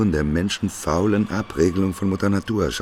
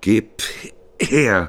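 louder, sharp demand for the water; 6 semitones higher, 6 dB louder than usual. Acted. Prophet demands the angel's water, loud and curt. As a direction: grab it with your voice.

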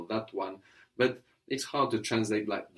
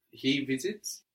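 normal talking voice

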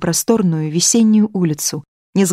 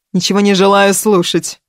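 interrupting; 3 semitones higher, 6 dB louder than usual. A narrator's reading. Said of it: "перебила Наталья Сергеевна".

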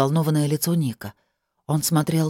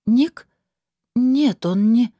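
startled denial; 6 semitones higher, 4 dB louder, much slower than usual. A narrator's reading. Heroine startled, protesting.

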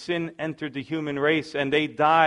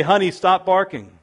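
mock scolding dog; 4 semitones higher, 6 dB louder than usual.

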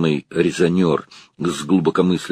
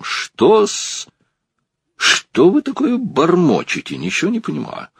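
scolding director; 10 semitones higher than usual. A narrator's reading. Director berates a mumbling novice.

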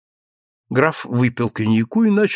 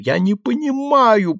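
moaning; 9 semitones higher than usual. Acted. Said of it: "простонал граф".

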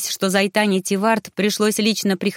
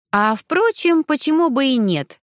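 nervous laugh; 6 semitones higher than usual. A narrator's reading. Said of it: "нервно рассмеялась Избела".

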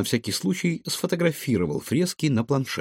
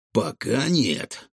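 slow, pondering answer; musing, unhurried reply; thoughtful; much slower than usual. Acted. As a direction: draw the words out while thinking. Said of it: "задумчиво ответил Рикошет".

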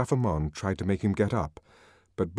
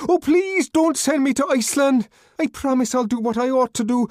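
high, loud, tearful pleading; grovelling for mercy; desperate begging; 7 dB louder than usual. A narrator's reading. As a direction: Bernard begging not to be sent away. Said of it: "The tears began to flow".

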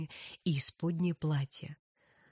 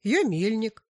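miller voice; 5 semitones higher, 8 dB louder than usual. Acted. Miller answers excitedly.

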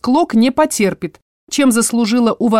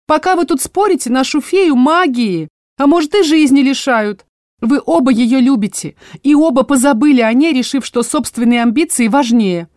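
put-on higher, louder old woman's scolding; scolding dryad; 6 semitones higher, 4 dB louder than usual. Tree-spirit Motya shaming the squabbling vampires, higher scolding. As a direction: tell them off like a stern grandma. Dryad lectures both suitors.

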